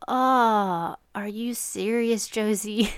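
slow, drawn-out exasperated groan of disbelief; retold exasperation at a child. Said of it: "super frustrated".

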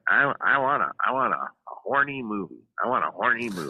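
put-on quoting an old-school producer in a New York accent; Ed Feldman New York accent. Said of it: "only in his New York accent".

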